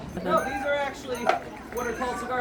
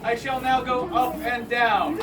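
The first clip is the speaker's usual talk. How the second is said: renaissance fair olde speech; 5 dB louder, slower than usual. Acted. Grand performer announcement.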